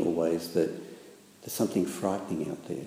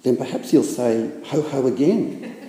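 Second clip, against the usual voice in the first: higher, louder anxious question; anxious Piglet; 5 semitones higher, 7 dB louder than usual. A narrator's reading. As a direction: fret about the heffalump. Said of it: "suggested Piglet anxiously".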